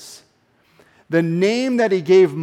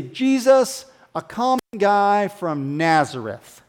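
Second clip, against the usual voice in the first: disdainful; 3 semitones higher than usual. Retold or imitated. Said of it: "they said this with disdain".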